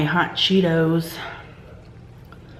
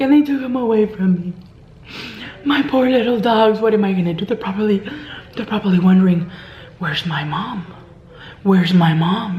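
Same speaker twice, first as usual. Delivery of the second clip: mock lament. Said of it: "exactly how she would talk".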